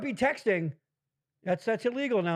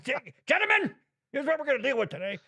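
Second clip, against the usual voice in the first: Patton impression; 5 semitones higher, faster than usual. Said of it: "Patton said that one time".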